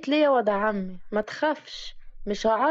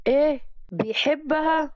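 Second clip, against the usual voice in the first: higher, shocked disbelief; 4 semitones higher than usual. Acted. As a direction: react as if you just heard bad news. Girl hears he loves another. (صدمة ودهشة بصوت أعلى)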